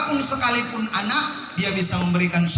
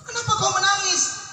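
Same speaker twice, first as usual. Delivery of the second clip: angel asking gently; 11 semitones higher than usual. Acted. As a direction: ask like a tender angel. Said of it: "Anak menangis sejadi-jadinya".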